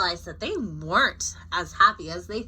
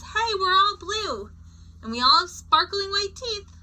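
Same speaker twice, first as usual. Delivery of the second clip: cheery high voice; 9 semitones higher, 5 dB louder than usual. A narrator's reading. Reading a state's speech bubble.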